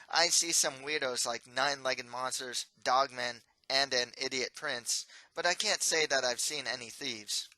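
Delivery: loud, snide ghost teasing; sarcastic nasal voice. Acted. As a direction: sneak the insult in smugly. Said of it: "nasally voice that always sounds sarcastic".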